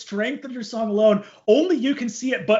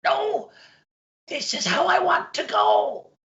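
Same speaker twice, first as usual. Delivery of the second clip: put-on very high, strained old-man voice; blissful old-timer refusing rescue, pitched way up; dying old pirate; 12 semitones higher than usual. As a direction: protest feebly in a high pirate croak. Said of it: "you see the old pirate goes".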